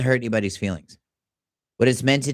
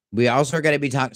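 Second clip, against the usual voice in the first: talking with mouth full; chewing a chip mid-sentence; 2 semitones higher than usual. Real, not acted. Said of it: "sorry, I'm eating a chip".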